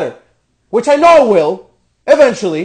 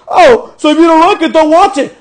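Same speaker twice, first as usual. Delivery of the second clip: mock the critics with a higher, louder sneering voice; mocking whine; 5 semitones higher, 4 dB louder than usual. Ranting to viewers, imitating critics with a mocking sneer. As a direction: sneer it back at them.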